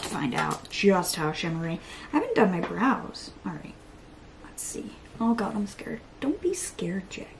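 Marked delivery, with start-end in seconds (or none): 5.2-7.3 voiceless nervous self-talk; whisper, soothing your own nerves; scared whisper. Real, not acted.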